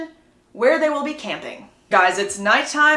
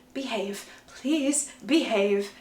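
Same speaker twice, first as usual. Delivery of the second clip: slow, restrained mock warning; warning plea; 4 dB quieter, slower than usual. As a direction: spell out the warning slowly and softly. Bella scolding Jacob in retelling.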